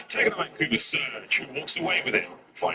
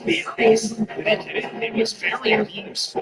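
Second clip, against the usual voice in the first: excited play-by-play; 9 semitones higher than usual. Real, not acted. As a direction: call the clutch live. Caster calling a tense clutch.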